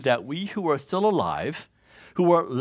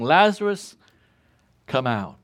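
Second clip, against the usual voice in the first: calling out loud. Acted. Jesus calls Lazarus from the tomb, loud call. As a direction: call the name across to the tomb. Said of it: "Jesus called out in a loud voice".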